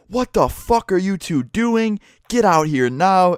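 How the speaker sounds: imitating an enraged mom's high yell; high, drawn-out shriek at two kids caught out, as retold; retold mom's scream. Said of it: "you just hear this scream".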